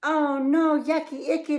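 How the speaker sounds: hammed-up yucky shout; owl shouted. A narrator's reading. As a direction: shout it in mock disgust. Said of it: "the owl shouted".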